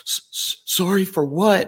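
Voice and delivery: startled, confused question; baffled woman. Retold or imitated. Woman on the phone puzzled by his apology, high startled question.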